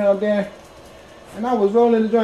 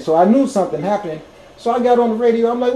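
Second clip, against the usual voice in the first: ordinary talk, nothing marked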